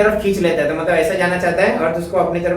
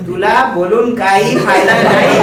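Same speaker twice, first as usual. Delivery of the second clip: exasperated parent; 3 semitones higher, 5 dB louder, slower than usual. Retold or imitated. Voicing a parent giving up.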